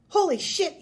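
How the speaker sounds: high, loud shocked yell; aghast shout, pitched high; horrified yell. A narrator's reading. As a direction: yell it out in horror. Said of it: "yelled the burglar".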